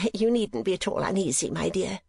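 high, coy mother voice with a titter; bland. A narrator's reading. Mother hinting at an admirer, blandly coy. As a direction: reassure blandly with a coy little laugh. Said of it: "more blandly than before".

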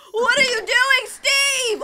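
high, loud shouted demand; indignant creeper. Acted. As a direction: confront Steve in a comic outburst. Acts out upset creeper.

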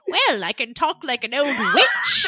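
loud boastful actor voice; Vincent Price voice. Retold or imitated. Voicing Vincent Price offering.

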